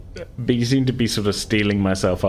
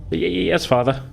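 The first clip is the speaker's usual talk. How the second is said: higher, stammering timid son; scared yes to a stern father; mild frightened stutter; nervous stammer; 9 semitones higher than usual. Acted.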